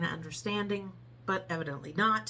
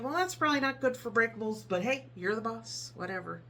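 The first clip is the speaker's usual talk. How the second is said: sarcastic inner thought; 3 semitones higher than usual. Retold or imitated. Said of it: "I'm thinking".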